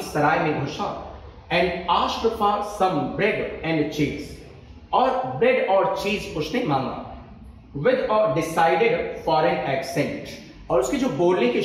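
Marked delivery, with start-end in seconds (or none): 1.5-4.3 slow dictation. Shown as a demonstration. Reads example sentence slowly. 7.8-10.3 slow dictation. Shown as a demonstration. Reads example sentence slowly.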